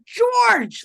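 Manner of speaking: high loud call of the name; ghostly call. Retold or imitated. Ghost calling the medium's name, high loud call.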